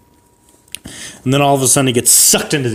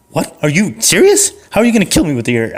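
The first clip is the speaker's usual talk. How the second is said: higher, faster scoff; mock the threat, pitched up; incredulous guard; 5 semitones higher than usual. Arrested guard scoffs at Gary's threat, pitched up.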